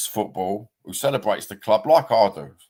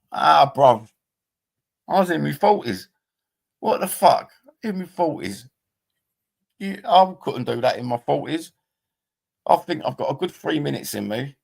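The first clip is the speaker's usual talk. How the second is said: high, loud disbelieving exclaim; incredulous outburst; 8 semitones higher, 4 dB louder than usual. Real, not acted. Telling viewers about being offered a knife, high incredulous outburst. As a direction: cry out in amused disbelief at the idea.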